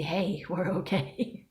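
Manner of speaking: reassuring own body. Retold or imitated. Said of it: "to help my body to see".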